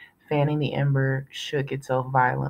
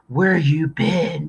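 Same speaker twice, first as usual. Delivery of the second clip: 1 yelled; 5 dB louder, much slower than usual. A narrator's reading. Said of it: "he yelled".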